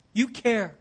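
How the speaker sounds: Jesus repeating it quietly, tenderly; soft repetition. Acted. Same words repeated softly.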